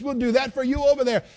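high, loud mocking politician voice; mock politician promise. Preacher mocking a politician promising voters, high and loud. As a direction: ham up a pandering politician.

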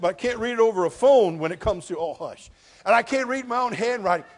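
loud, high preaching to the congregation; preaching at full force. Acted. Pastor to his church, loud full-force preaching. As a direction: thunder it from the pulpit.

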